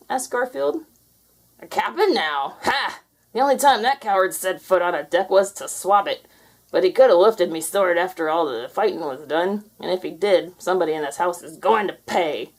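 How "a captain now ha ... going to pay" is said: scoffing pirate. Acted.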